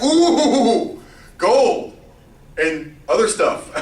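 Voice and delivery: mock-greedy crowd cooing at gold; greedy excitement. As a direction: gush over the treasure with a laugh. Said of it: "the people were like".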